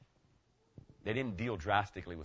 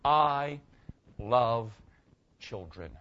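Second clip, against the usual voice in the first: sincere; 5 dB louder, much slower than usual. Real, not acted. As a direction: lay your heart bare on each word. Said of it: "with all the sincerity of Christianity".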